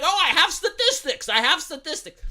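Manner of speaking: mocking voice. Mocking Pakman clones' smug claim.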